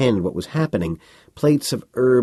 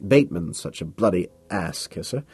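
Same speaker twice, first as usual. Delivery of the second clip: patient explaining; 2 semitones higher than usual. Acted. Carnes talks down to Bateman like a child. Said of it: "as if patiently trying to explain something to a child".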